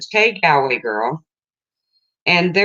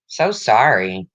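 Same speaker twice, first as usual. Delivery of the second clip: slow, lower "So sorry" with a long, heavy so; sincere condolence; 3 semitones lower, slower than usual. Real, not acted. Condolence to a viewer.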